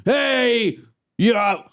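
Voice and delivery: high mock wrestler yell. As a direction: yell it like a brute. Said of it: "is yelling".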